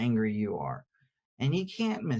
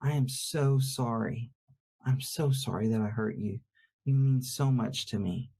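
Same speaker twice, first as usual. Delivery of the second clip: sincere apology. Shown as a demonstration. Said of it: "if I'm trying to say to my wife".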